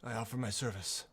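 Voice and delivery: lightly voiced older woman, measured with long pauses; older woman stranger. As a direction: offer it haltingly, lightly in character.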